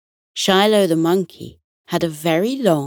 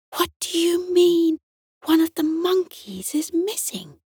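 high, startled hushed question; surprised whisper; 12 semitones higher than usual. A narrator's reading. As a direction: gasp it out in disbelief. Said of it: "whispered back in surprise".

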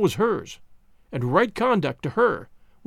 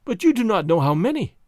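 desperate. Acted. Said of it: "she objected desperately".

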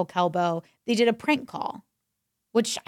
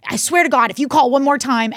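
retold exasperation; 2 semitones higher, 6 dB louder than usual. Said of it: "is losing her mind".

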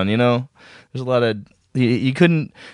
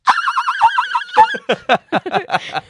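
high squealing laugh. Real, not acted. Laughing at dolphin joke.

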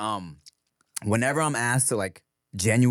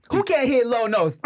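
mock offence; 10 semitones higher than usual. Mock-offended challenge about singing low.

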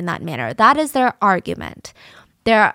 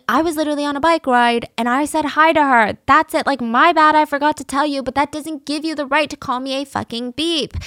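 higher, defensive explaining; 5 semitones higher than usual. Retold or imitated. Christian explaining himself to the girlfriend, pitched up. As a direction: plead your case, a bit strained. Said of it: "He's explaining".

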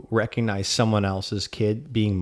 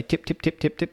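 typing sound; 6 semitones higher, 3 dB quieter than usual. Shown as a demonstration. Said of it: "That's me typing".

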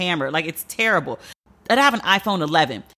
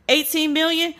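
high disbelieving eighteen million; can't believe the number; incredulous; 8 semitones higher than usual. Real, not acted. Host repeating the sum in disbelief.

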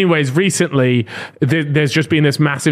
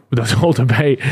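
words broken by a real laugh; cracking up laughing; 4 semitones lower than usual. Real, not acted. Host cracks up over the debate, laughing. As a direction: laugh through it, can't hold it in. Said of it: "I don't know why that made me crack up".

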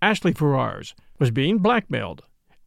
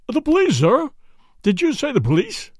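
higher-pitched, incredulous questioning; startled butler; 8 semitones higher than usual. A narrator's reading. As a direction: echo it back in startled disbelief. Butler startled by mention of police.

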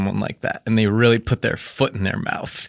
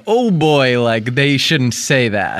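nervous nerd voice; slower than usual. Retold or imitated. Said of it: "he's doing that like".

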